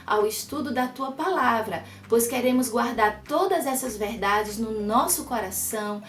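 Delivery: voz calma de oração. Acted. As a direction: ore com serenidade. Leads a prayer. (oração tranquila)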